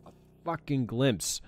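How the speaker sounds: high, slow mocking gloat; gloating taunt. Real, not acted. Gamer taunting the enemy that missed him, slow high gloat. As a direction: rub it in the enemy's face.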